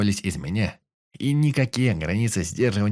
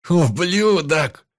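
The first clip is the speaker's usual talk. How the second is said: slow, stretched, much higher loud insult; furious scream; 9 semitones higher, 7 dB louder, much slower than usual. Acted. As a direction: drag the curse out in rage. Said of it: "закричал я".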